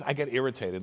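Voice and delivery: usual speaking voice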